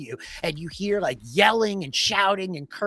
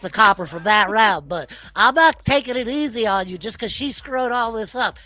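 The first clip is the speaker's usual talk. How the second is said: put-on grumpy old kobold; 5 semitones higher, 7 dB louder than usual. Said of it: "Old Ben's like".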